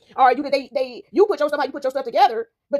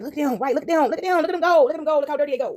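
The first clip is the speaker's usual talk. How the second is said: higher, repetitive jeering imitation; pitched-up mock heckling; mock gawking; 4 semitones higher than usual. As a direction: point them out like a gleeful onlooker. Mimics onlookers gawking and mocking.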